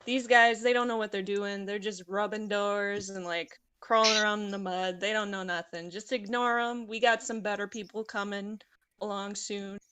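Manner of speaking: put-on casual street-talk ghetto accent. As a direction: lightly voice a ghetto accent, dropping g's. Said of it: "I'll do just my ghetto one".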